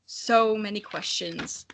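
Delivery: lightly voiced slow mutter of the dragon; read dragon line. Narrator reads the dragon's line, slow and lightly muttered. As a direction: let it trail off as the weary dragon. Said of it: "the figure of the dragon muttered".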